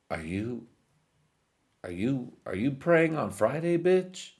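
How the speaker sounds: mock interrogating king. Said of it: "motherfucker was like".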